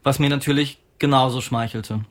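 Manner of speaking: measured reading of a literary text. Acted. Author reads an essay on Ackermann's film to listeners, literary reading. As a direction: read it out evenly, with deliberate pauses.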